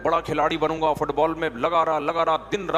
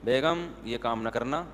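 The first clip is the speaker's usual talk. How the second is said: mock stern warning; 5 semitones lower, 5 dB quieter than usual. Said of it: "آپ کیا کہیں گے؟".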